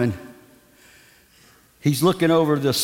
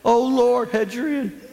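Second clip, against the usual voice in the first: a hint of an anxious praying deacon; half-joking church prayer; mock prayer; 5 semitones higher than usual. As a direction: plead it like a nervous prayer.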